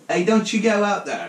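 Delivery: high, loud mock yell, half laughing; hammed-up motherly shriek, close to cracking up; screaming Italian mother. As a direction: holler like a classic Italian mama. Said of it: "scream in classic Italian mother".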